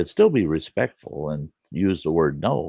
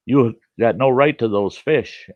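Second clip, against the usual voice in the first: mock yell; 5 semitones higher, 5 dB louder than usual. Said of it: "he starts yelling out the win".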